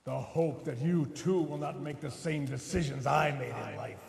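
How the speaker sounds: Grim Reaper voice. Acted. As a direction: intone it like a ghostly messenger. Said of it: "knock off the Grim Reaper voice".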